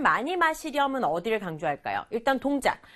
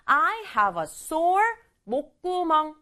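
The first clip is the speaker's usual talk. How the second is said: a hint of a slow whiny kid on "I have a sore 목구멍"; sick child's answer; 5 semitones higher, much slower than usual. Teacher voicing a child answering mom, a hint of whining. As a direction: mildly play a sick kid, slowly. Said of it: "아이 대답이요".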